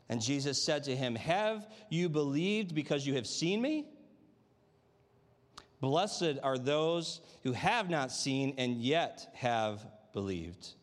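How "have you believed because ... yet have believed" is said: slow, deliberate gospel reading; solemn reading; slow scripture reading. Acted. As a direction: let each word of Jesus land slowly.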